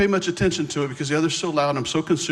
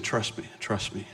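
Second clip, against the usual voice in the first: soft, slow murmur; quiet voice; 3 semitones lower, 8 dB quieter than usual. Retold or imitated. God's still voice telling him to trust, soft and slow. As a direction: hush it like a gentle inner prompting. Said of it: "But God's just saying".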